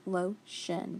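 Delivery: "Lotion" in two parts, long o; sounded out by syllable. Shown as a demonstration. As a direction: break "Lotion" into lo and shun. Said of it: "so it's gonna be long".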